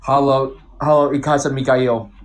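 German with an English accent. Shown as a demonstration. Showing friends a German sentence, in an English accent. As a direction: say it like an English speaker trying German. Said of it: "an English guy saying German".

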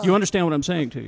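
fast, insistent actor voice; Herbert Jefferson Junior. Retold or imitated. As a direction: rattle it off like a lecturing actor. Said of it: "a Herbert Jefferson Junior impression".

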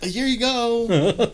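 loud, high-pitched, dragged-out stoned handover; hammed-up slow-motion stoner voice; super slow stoned. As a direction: stretch every word out as if far too high. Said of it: "going super slow".

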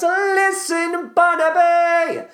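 high, slow bellowed sung call; shouting. Pretend. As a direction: bellow it across the stage. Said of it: "so I can shout my face off".

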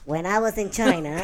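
helium voice. Acted. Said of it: "awful impressions of awesome movies".

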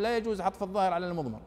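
fast, rule-reciting mock grammarian; quoting a strict grammarian. Teacher to students, mimicking the grammarian's rule, quick and curt. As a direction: rattle off the rule like a rigid grammarian. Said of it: "ويضع قاعدة يقول".

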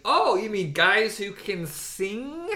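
high, loud mocking retort; sarcastic. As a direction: scoff at them sarcastically.

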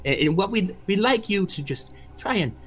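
lightly voiced gracious hostess; a hint of a fussy, polite hostess; Madame Deswona.

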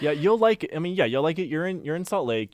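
high, loud and eager; excited. Real, not acted. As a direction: gush about the city. Excited reassurance about Utah.

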